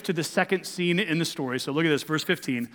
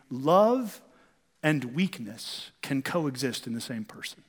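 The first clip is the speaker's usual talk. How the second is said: soft intimate line; 4 semitones lower, 5 dB quieter than usual. Shown as a demonstration. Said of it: "Listen to me".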